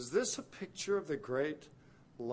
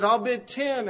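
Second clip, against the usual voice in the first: loud, much higher call; a rival bidder shouting a higher price; rising bid; 10 semitones higher, 12 dB louder than usual. Acted. Bidder at slave auction.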